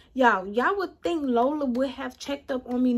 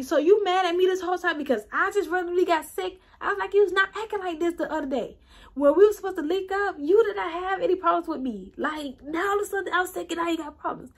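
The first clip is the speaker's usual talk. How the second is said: higher, fast, indignant pushback at dad; retold quarrel with dad, indignant and fast; retold angry comeback; 5 semitones higher, faster than usual. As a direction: fire it back at him, fed up and fast. Arguing back at her dad.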